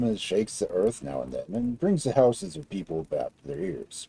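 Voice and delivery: deliberate big giant. Acted. Giant describes earthquaker.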